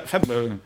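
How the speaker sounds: Feb, then mumble away the rest of February; backing-out mumble. Shown as a demonstration. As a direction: give up halfway through February. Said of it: "I just back out".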